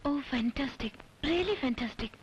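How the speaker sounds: drawn-out, wry-sounding admiration; seemingly mocking. Visitor reacts to the temple legend, sounding mocking. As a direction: react slowly, open to being heard as mockery. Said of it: "പരിഹസിക്കണ്ട".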